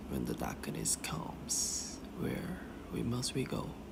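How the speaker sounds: tiny, hushed, very quiet, breathy whisper. Recalling a line recorded right after waking up: very quiet voice. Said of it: "진짜 딱 이 소리로 완전 작게 해서".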